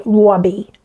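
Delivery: "Robbie" with the R softened toward a W; imitated regional accent. Vlogger imitating a client saying her son's name, regional accent. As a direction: mimic her "Robbie" with a rounded, W-like R. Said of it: "she would say Robbie".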